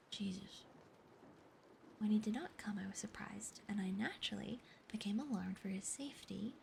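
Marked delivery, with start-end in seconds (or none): 2.0-6.5 hushed, breathy-free whisper telling the tale; whispered story reading. Acted. Streamer whispering a Sherlock Holmes chapter to chat, whispered narration. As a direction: read the mystery aloud in a whisper.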